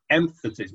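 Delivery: EMphasis with the first syllable stressed. Shown as a demonstration. Preacher showing listeners how emphasis is stressed, first-syllable stress on Emphasis. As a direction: hit EM in Emphasis, let the rest fall away. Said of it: "has an emphasis in itself".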